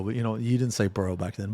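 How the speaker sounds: ordinary talk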